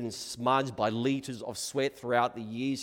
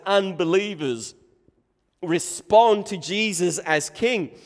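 loud, raised-pitch sermon delivery; ringing, emphatic proclamation from the pulpit; impassioned preaching; 6 semitones higher, 12 dB louder, slower than usual. Acted. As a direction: preach it out at full force. Preaches at full force.

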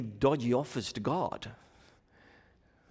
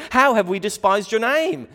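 indignant protest; 7 semitones higher, 8 dB louder than usual. Acted. Voicing the priests' protest.

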